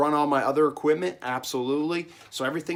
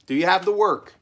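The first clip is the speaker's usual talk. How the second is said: grandpa questioning; 5 semitones higher, 7 dB louder than usual. Retold or imitated. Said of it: "he goes".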